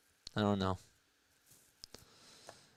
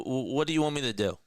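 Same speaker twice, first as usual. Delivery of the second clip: exasperated outburst; 5 semitones higher, faster than usual. Real, not acted. Venting at complaining fans.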